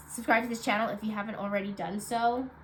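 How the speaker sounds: ordinary talk, nothing marked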